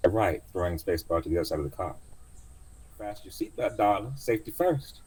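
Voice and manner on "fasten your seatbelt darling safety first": higher, cheery auntie order; old cab driver. Acted. Driver telling passenger to buckle up, high cheery voice. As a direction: chirp the safety rule.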